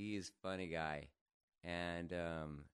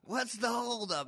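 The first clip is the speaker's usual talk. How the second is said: loud, high, drawn-out holler; stretched-out shout at a dawdler; calling out; 9 dB louder than usual. Retold or imitated. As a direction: yell it impatiently across the water. Acted calling out to hurry friend.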